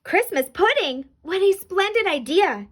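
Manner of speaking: delighted high-pitched exclamation; lively, lifted storybook Santa; exclaiming. A narrator's reading. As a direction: exclaim it with pleased surprise. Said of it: "Santa exclaimed".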